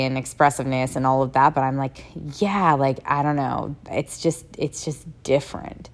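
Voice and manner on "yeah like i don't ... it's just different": smiling. Real, not acted. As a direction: talk through a real smile. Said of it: "I'm still smiling as I'm saying this".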